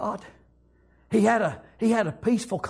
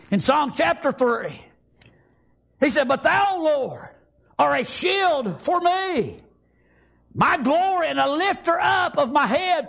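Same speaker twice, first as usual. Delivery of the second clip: fervent preaching; 5 semitones higher than usual. Real, not acted. Preaching at full force.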